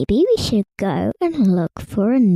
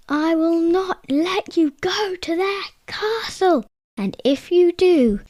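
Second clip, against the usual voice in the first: troll threat; 8 semitones higher than usual. Acted. Angry troll threatens king.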